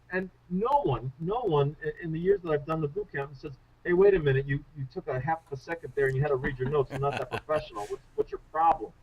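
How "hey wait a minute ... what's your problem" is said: lightly put-on Brooklyn heckler; Brooklyn accent. Imagined attendee objects to a glance at notes, mildly Brooklyn. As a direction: challenge the speaker with a touch of Brooklyn. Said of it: "I don't know why I got all Brooklyn".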